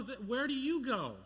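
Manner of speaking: high-pitched call upward; yelling up. Retold or imitated. Confused boy to pirate captain above, yelling up. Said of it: "so I yell up".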